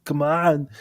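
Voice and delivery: lightly voiced Austrian action hero; a hint of strongman urging; brief mock Austrian catchphrase; Arnold Schwarzenegger. Shown as a demonstration. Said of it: "just go to".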